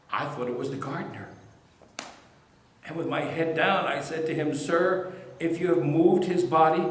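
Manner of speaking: Mary recounting the empty tomb, moved to tears then overjoyed; a witness reliving the morning she met him; grieving then joyful Mary. Acted. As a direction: speak as Mary, from grief to wonder. Woman performs Mary's resurrection monologue.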